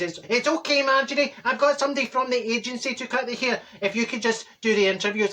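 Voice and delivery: lightly voiced young man asking a favour; hairdresser Josh. Hairdresser asking Marjorie to run interviews, lightly voiced. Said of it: "He says".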